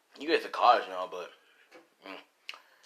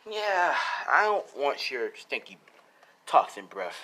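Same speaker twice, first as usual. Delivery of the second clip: mock disgust; slower than usual. Deku mocking the villain.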